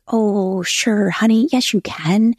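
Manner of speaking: pep talk. Retold or imitated. Husband talking wife out of her doubts, imitated pep talk. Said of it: "giving me the pep talk".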